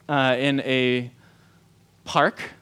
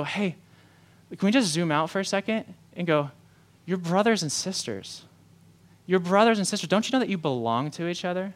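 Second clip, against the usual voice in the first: tender appeal. Acted.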